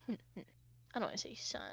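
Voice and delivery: ordinary talk, nothing marked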